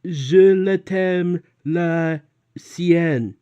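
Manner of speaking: a nervous student caught out in class; panicked student. Retold or imitated. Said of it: "I'm not the kind of person who's like".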